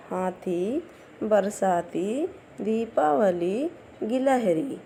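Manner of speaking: each word drawn out with a lifting end, like a drill; read aloud clearly. Shown as a demonstration. Teacher reading the word list aloud for pupils to repeat, slow and clear. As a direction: spell it out in sound for beginners. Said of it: "बोल बोल कर पढ़िए".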